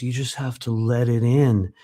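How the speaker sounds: creepy drawn-out voice. Retold or imitated. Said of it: "in this extremely creepy way".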